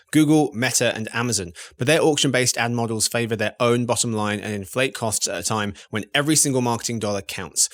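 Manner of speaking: smooth sponsor read; polished podcast ad voice. Acted. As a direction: sell it like a host-read ad spot. Host reads sponsor ad.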